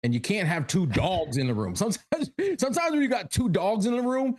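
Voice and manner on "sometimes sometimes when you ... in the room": high-pitched, laughing through the words; barely holding back real laughter; trying not to laugh. Real, not acted. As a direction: say it while cracking up. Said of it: "can't even say it without laughing".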